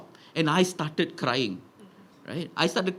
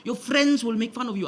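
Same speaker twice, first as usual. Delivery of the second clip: warning auntie; 6 semitones higher than usual. Retold or imitated. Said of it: "she said".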